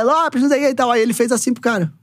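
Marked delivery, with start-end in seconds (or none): 0.0-0.9 lightly voiced fan jeering, pitched up; heckling fan. Fan in the stands taunting Lopes, a mild mock jeer. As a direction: toss off a taunt at the coach.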